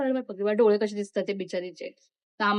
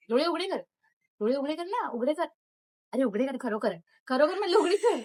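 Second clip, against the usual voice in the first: higher and more insistent with each repeat; impatient urging; 6 semitones higher than usual. Acted. Girl losing patience with her sister during the skit, insistent. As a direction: push her harder every time you say it.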